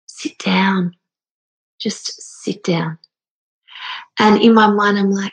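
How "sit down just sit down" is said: whispered, tender repetition; soft whisper. Retold or imitated. She repeats granny's message to viewers in a whisper. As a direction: hush it gently, like a lullaby.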